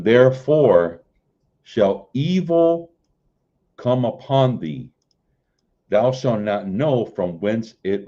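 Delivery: measured King James recitation; scripture reading. Acted. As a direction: read the verses like a preacher from the pulpit. Continues reading Isaiah.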